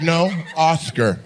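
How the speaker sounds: mock lisped "Oscar"; imitated lisp. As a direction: say "Oscar" slowly with th for s. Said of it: "He was like".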